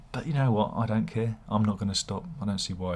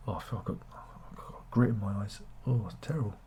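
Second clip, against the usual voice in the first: whisper; 8 dB quieter, faster than usual. Real, not acted. Complaining about eyes.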